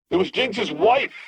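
called out. A narrator's reading. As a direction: fling the reveal back over your shoulder as you fly off. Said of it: "he called out".

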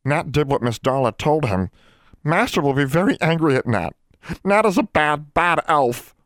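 high-pitched, miserable elf voice; moaning house elf. A narrator's reading. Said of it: "he moaned".

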